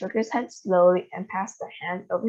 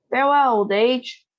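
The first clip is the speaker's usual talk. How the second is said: a raised, ringing farewell; triumphant cry; 5 semitones higher, 5 dB louder than usual. A narrator's reading. Grandma calling out as she takes the pill. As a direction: toast the end of old age.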